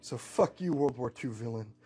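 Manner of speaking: lightly voiced defiant cowboy; stubborn hero standing up to a villain, punchy stresses. Terra Man refuses to yield to the captain, defiant.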